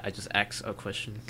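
"ask" said like "axe"; wrong "ask". Shown as a demonstration. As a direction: swap the sounds in "ask" to "aks". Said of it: "another word people say, like, wrong".

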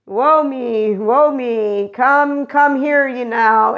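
pitiful mock lament, beckoning; mock self-pity. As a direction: ham up a needy plea to come close. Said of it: "they make it out to be".

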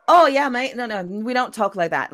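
a hint of a Yorkshire mate butting in. Yorkshire friend correcting the dialogue, lightly northern. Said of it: "friends and compatriots in Yorkshire".

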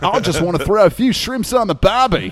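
broad, playful Australian accent. Shown as a demonstration. Voice actor topping the host's attempt, broad Australian accent. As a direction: answer back as a mock-miffed Australian. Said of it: "That's my Australian".

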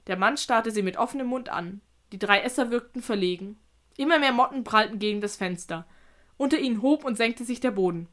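measured read-aloud narration; careful storyteller's reading; story narration. A narrator's reading. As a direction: tell it evenly, like an audiobook.

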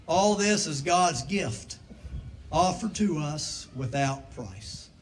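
formal liturgy read aloud; liturgical reading. Acted. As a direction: read the rite with solemn weight. Reads baptismal liturgy.

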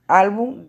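"álbum" with a strong, slow ÁL; teacher's slow "álbum", first syllable punched; stress on penultimate syllable. Shown as a demonstration. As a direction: lean hard on the ÁL of "álbum". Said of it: "se le hace el mayor esfuerzo de voz".

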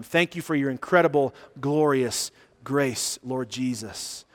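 slow, earnest public prayer. Real, not acted. Pastor thanks God in closing prayer, slow and earnest. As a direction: lead the congregation in prayer, unhurried.

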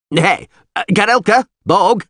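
high-pitched summoning holler; calling out. Acted. Alderman summoning his men by name, calling out. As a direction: call names one after another.

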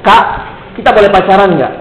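put-on small kid asking, understated; lightly voiced schoolboy question; kid's question. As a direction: ask it tentatively in your own pitch. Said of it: "Tiba-tiba ngomong begini".

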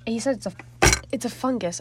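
hiccuping between words; suppressing hiccups. Real, not acted. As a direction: fight the hiccups mid-sentence. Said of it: "I'm sorry, I have hiccups".

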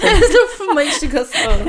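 laughing. Real, not acted. Repeats friend's line laughing.

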